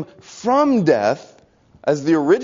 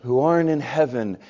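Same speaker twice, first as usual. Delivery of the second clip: very soft, faint prayer; a hint of a trembling old woman; weak trembling voice; 3 semitones lower, 4 dB quieter than usual. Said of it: "in a weak, trembling voice".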